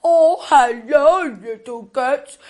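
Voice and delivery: put-on a gentle old grandma saying hello; lightly voiced grandma; Grandma's voice. Storyteller voicing Grandma.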